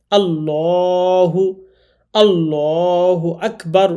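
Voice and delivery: আল্লাহু slow with a thick, dark lam; heavy lam in Allah. Shown as a demonstration. Teacher models the thick lam after the wrong take. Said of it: "এরকম".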